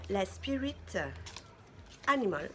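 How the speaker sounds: a light English accent on the palette name. Shown as a demonstration. To her viewers, naming the palette, in a light English accent. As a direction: say Spirit Animal the English way, lightly. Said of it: "avec mon accent anglais".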